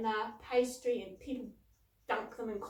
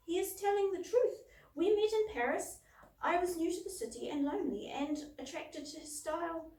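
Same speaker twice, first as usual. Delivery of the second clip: higher, emphatic storybook character voice; Claudine on the phone; 6 semitones higher, 4 dB louder than usual. A narrator's reading. Ladybug confirms the moth's story by phone, lightly voiced character. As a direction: lift the voice for the quoted ladybug. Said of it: "said Claudine over the transatlantic phone".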